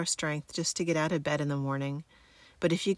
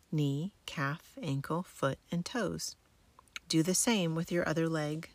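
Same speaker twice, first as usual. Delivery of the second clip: sleep story narrator. Acted. Guides military sleep method relaxation.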